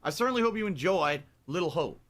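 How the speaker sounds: hammed-up southern hollering; put-on southern gentleman with high "oh boy" cries; Colonel Sanders. Host reacting to the game's end as Colonel Sanders, southern voice. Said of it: "me being in character for the game".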